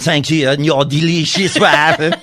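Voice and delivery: put-on laughing, a light French accent on "delicious"; mock French accent. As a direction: tease the line in a hint of French.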